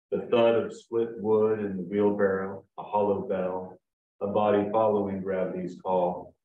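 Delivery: measured poem recital with deliberate pauses; poetry reading. Acted. Poet reads his wood-splitting poem to an audience, measured recital. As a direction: read it phrase by phrase, giving images room.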